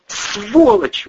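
high, loud spat insult. Acted. Wife slapping her husband, spat furious insult. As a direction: spit the word at him. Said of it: "выплюнула Кристина".

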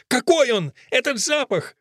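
high, demanding cry; Fusia. A narrator's reading. Fusia demands to know about the smell, crying out. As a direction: cry out high, pressing for an answer. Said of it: "кричит Фусия".

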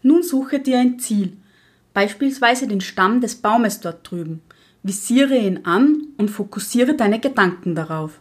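a lightly voiced stern old witch lecturing; strict witch teacher. (Lehrerinnenhexe, leicht gespielt, streng belehrend)

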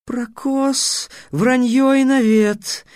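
high, slow indignant outburst; flaring up. A narrator's reading. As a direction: snap back, suddenly offended. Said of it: "неожиданно вспыхнул Сфинкс".

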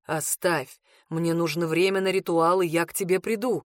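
calm low male voice, unhurried. Acted. Male character answers calmly.

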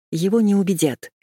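usual speaking voice

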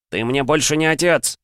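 high-pitched indignant outburst; angry exclamation. A narrator's reading. Son rejects his undead father, angry exclamation. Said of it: "гневно воскликнул Сэнго".

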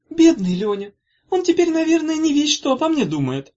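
high, loud regretful wail; high plaintive pity; lament. A narrator's reading. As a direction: mourn it dramatically. Sister laments the boyfriend.

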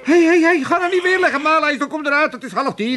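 loud call to get up, high and loud; father shouting his son awake, loud call. Acted. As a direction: rouse him out of bed, loud. Calling him out of bed.

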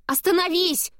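high panicked cry to stop him; panicked shout. A narrator's reading. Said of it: "в панике кричу я".

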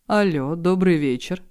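slow, smooth charm; бархатным голосом; velvety, winning voice. Acted. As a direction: disarm the caller. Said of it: "располагающим бархатным голосом".

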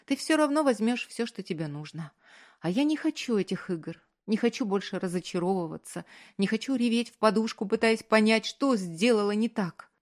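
put-on a young woman's tearful outburst; hurt young woman. A narrator's reading. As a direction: voice her climbing toward tears.

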